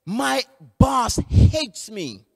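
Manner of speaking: slow, drawn-out mock distress; lightly acted tearful complaint; retold upset complaint. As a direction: imitate an upset worker, dragging the words. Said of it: "Carl called me crying one day".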